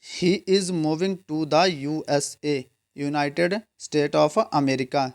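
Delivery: very slow, each word set apart; slow model sentence. Shown as a demonstration. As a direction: dictate slowly to students. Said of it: "article the का use करेंगे".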